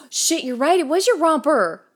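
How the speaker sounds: surprised realization. Real, not acted. Sudden realization.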